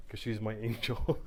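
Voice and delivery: slow, fond chuckle over the word; laughing fondly. Real, not acted. Father laughing about his angel daughter, fondly. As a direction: melt a little as you say it.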